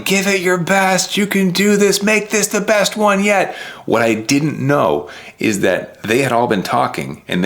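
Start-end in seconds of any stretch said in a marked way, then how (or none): 0.0-3.5 high mock cheer from the crowd; lightly voiced cheering family; retold cheering. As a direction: call it out like family at the finish line.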